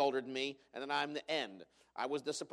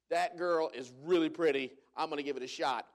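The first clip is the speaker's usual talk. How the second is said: admiring dude; 4 dB louder than usual. Retold or imitated. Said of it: "dude can mean".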